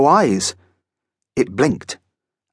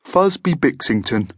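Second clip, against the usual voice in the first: lightly voiced friendly monster, higher; a genial monster giving his full name; Fuzby; 4 semitones higher than usual. A narrator's reading.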